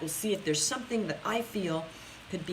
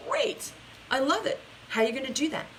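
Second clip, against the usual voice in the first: mock enthusiastic; 5 semitones higher than usual. Coach's retold upbeat reply.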